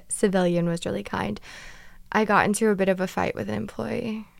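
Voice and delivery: ordinary delivery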